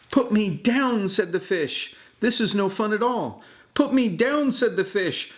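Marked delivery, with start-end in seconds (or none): 0.1-1.1 panicked fish. A narrator's reading. Grandpa voicing the dangling fish to grandchild, high and panicked. 2.2-4.5 panicked fish. A narrator's reading. Grandpa voicing the dangling fish to grandchild, high and panicked.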